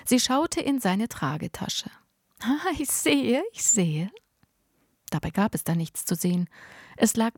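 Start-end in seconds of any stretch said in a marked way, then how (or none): 2.4-3.4 high, slow, whispered fake interest; knowing whisper. A narrator's reading. Neighbour peers into bag.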